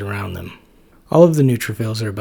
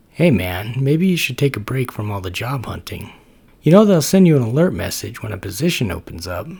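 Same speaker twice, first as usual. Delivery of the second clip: laid-back, easygoing buddy voice, a bit louder; Max the macrophage; 5 dB louder than usual. Acted. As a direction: chill roommate nudging his friend. Max, friendly roommate voice.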